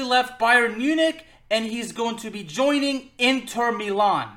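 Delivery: grand announcer reveal; ringmaster. Pretend. Big news announcement.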